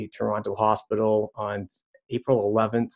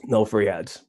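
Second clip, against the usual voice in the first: just after a sip, mouth still wet; while sipping a drink. Real, not acted. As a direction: speak right after swallowing a drink. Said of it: "let me take a sip of my pink wit".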